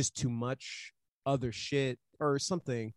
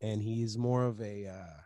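mock pretentious; 2 semitones lower than usual.

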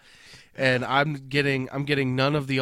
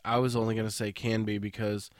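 stuffed-up, congested voice; blocked nose; 3 semitones lower than usual. Real, not acted. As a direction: talk through a blocked nose. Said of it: "I can't breathe out of my nose right now".

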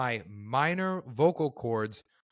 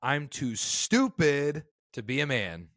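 scripture reading; 3 semitones higher, slower than usual. Shown as a demonstration. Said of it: "Chapter thirty, verse two".

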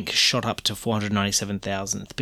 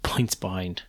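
a hint of Irish creeping into the vowels; unintended touch of Irish accent; accidental Irish accent; 2 semitones lower, 4 dB quieter than usual. Real, not acted. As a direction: slip briefly into an Irish lilt. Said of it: "I don't know why I turned Irish then".

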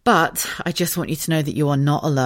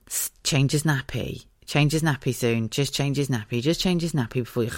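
drowsy inner voice; 3 semitones lower, 5 dB quieter than usual. Retold or imitated. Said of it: "I kept thinking".

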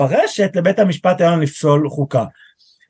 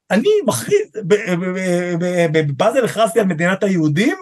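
pompous proclamation; 2 semitones higher than usual. Retold or imitated. Mocking a judge's grand declaration.

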